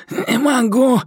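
high and very slow, squeezed out; choked plea, pressed for breath; strained gasp. A narrator's reading. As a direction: force the words out with no air under a knee. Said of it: "с трудом выдавил он".

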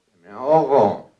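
loud, drawn-out mock plea; acted desperate shout, stretched out; drowning cry for help. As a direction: call out slowly as if drowning. Drowning man calls again.

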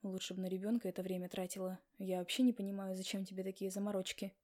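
a husband pushing his wife to quit; husband's voice. Acted.

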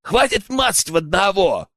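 disgruntled. A narrator's reading. Second accomplice resenting the poacher hogging the captive, disgruntled. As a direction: complain sharply at your partner. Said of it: "недовольно буркнул второй подельник".

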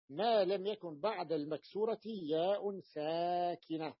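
measured, drawn-out dictation pace; slow deliberate reading. Shown as a demonstration. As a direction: read the condition slowly, stretching the long vowels. Teacher slowly rereads key condition. (قراءة متأنية ممدودة)

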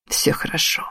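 faint whispered reassurance; almost no voice, just breath; barely audible. A narrator's reading. Dying Shiro soothes Emi, barely audible whisper. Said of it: "Его голос был едва слышен".

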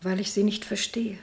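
hushed, voiceless answer; whispered reply. Acted. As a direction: whisper it, barely there. Geflüsterte Antwort im Dialog. (geflüstert, kaum hörbar)

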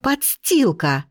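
slow, drawn-out yelled insult; yelling insult. A narrator's reading. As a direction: hurl it at her slowly. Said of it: "вопит Лита". (протяжный вопль)

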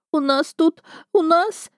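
bursting into tears, can't get the words out; wailing sob. A narrator's reading. House spirit sobs down the phone to the narrator, wailing and high. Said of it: "и заревела в голос".

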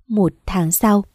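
hushed whispered time cue. A narrator's reading. Narrator marking a time jump, whispered. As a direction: breathe the words out with no voice.

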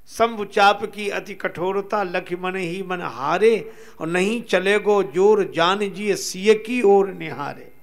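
measured devotional couplets with drawn-out line endings; verse recitation. Acted. Storyteller reciting scripture verse to listeners, lightly chanted recitation. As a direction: recite the verse, stretching each closing word.

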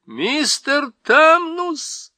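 high, slow, loud shout of his name. Acted. Lucy shouting into the Faun's ear to stop him crying. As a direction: yell it right into his ear. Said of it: "громко закричала Люси".

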